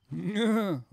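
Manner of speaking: loud, high evil cackle attempt; sardonic laugh. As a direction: try a scary villain laugh. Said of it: "on dirait un mouton".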